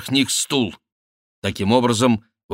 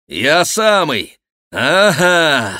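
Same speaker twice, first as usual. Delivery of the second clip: радостный отклик; 5 semitones higher, 6 dB louder, much slower than usual. Acted.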